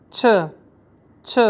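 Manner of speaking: छ as a short clipped syllable; teacher shows alternate sound; variant pronunciation. Shown as a demonstration. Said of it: "बाज़ लोग इसको छ बोलते हैं".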